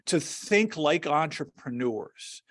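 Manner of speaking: "think" emphasized, the phrase slowed down; stress on THINK. Real, not acted. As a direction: lean on the word "think", taking it slowly. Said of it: "I'm emphasizing the word think".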